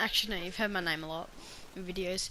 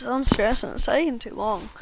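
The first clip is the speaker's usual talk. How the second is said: louder, fed-up outburst; stressed outburst; 3 semitones higher, 8 dB louder than usual. Real, not acted. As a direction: vent the stress loudly.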